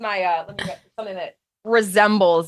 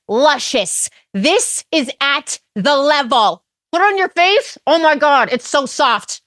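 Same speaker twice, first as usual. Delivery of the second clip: higher, breathless makeup-review gush; Bethany Frankel; 5 semitones higher than usual. Pretend. Bethenny reviewing lipstick for followers, high gushing. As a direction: hype the lipstick like a beauty reviewer. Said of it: "Bethany Frankel reviewing the newest L'Oreal lipstick".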